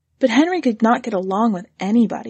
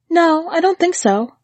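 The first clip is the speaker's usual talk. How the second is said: lightly raised, meek wife; a hint of higher wife voice; 9 semitones higher, 4 dB louder than usual. Anne voiced by narrator.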